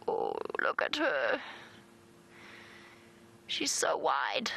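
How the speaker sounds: slow, hushed awe at the animal; drawn-out, half-whispered fondness; tender cooing. Real, not acted. Cooing over pregnant impala.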